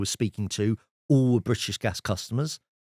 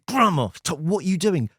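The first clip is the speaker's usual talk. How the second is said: exasperated plea; 8 semitones higher, 4 dB louder than usual. Retold or imitated. Pleading with grandma outside.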